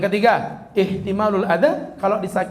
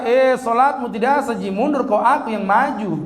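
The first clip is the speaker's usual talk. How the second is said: mock angry Bugis; 3 semitones higher than usual. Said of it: "Orang Bugis marah-marah".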